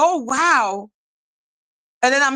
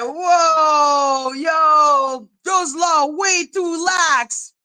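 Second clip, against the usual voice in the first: shocked exclaim; 4 semitones higher, much slower than usual. Retold or imitated. Retold shock at privacy laws.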